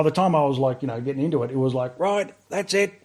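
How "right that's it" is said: imitating a drill instructor, pitched much higher; hammed-up higher bark of orders; instructor yelling. Instructor barks orders at recruits.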